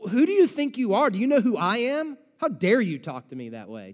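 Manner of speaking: mock offended rebuke; mock indignant rebuke. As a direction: play a haughty offended master. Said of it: "Jesus doesn't say".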